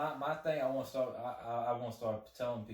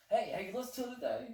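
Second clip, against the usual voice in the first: mock eager fan; 13 semitones higher, faster than usual.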